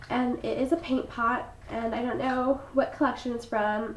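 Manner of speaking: stuffy froggy voice. Real, not acted. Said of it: "I sound so sick and horrible".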